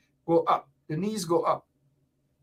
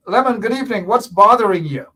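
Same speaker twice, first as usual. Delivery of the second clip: raised voice for a faint listener; to someone hard of hearing; 6 dB louder than usual. Real, not acted. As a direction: call out so he can hear. Host greets caller, asks him to speak up.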